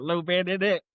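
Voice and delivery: stepdad voice. Retold or imitated. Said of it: "he had that voice on fucking point".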